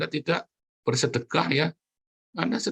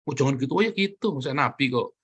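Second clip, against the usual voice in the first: mock excuse. Preacher mimicking a dodger hiding behind the prophet, fast. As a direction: rattle off the dodge.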